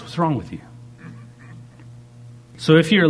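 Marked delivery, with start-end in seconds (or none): 0.0-0.6 soft, caring question; concerned. Retold or imitated. Preacher voicing God gently asking the worldly, soft concern. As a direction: ask it gently like a worried father. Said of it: "he goes".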